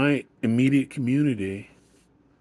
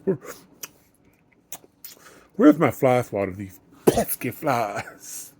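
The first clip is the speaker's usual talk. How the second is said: put-on old man voice; 4 semitones higher, 6 dB louder than usual. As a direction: play a cranky old man. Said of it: "I'm rocking in my non-existent old man's chair".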